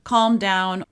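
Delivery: demanding parent. Retold or imitated. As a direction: snap it out like a bossy parent. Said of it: "demanding, controlling, dominating".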